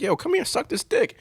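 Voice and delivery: high, mock-casual demand; blunt come-on. To his wife, a high, casual mock come-on. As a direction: toss it off like nothing.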